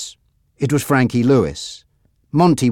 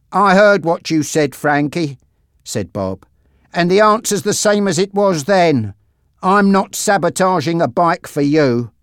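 higher-pitched firm refusal; defiant mechanic Bob; 6 semitones higher than usual. Acted. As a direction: stand up to the gangster.

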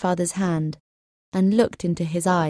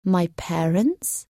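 surprised; slower than usual. Acted. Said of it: "repeated Cedric in a surprised voice".

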